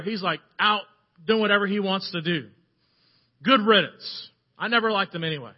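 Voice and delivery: put-on mildly indignant older brother, building in volume; angry, frustrated. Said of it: "he's angry and he's frustrated".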